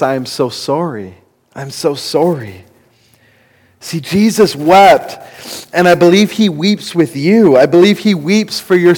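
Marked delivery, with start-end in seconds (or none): 0.0-2.6 soft, gentle voicing of Jesus's sorrow; tender apology. Pastor voicing Jesus consoling the grieving, softly tender. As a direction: say it like comforting someone grieving. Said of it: "his response is this".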